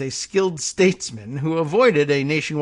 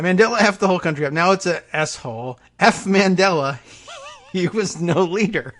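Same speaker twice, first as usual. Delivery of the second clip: quick mock Trump; 3 semitones higher than usual. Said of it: "repeat of quote, faster".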